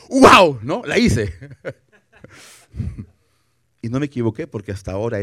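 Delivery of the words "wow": delighted wow. Retold or imitated.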